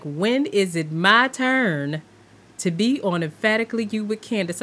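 mock-impatient plea; impatient waiting. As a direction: play someone tired of waiting for a turn. Acting out waiting impatiently in line.

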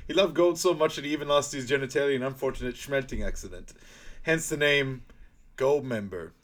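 grand reveal of the name; Doctor Evil impression. Continuing Doctor Evil speech.

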